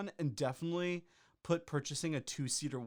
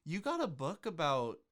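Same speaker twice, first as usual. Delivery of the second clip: high incredulous disbelief; 5 semitones higher than usual. Real, not acted. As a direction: say the name in sheer disbelief. Mocking reviewer name.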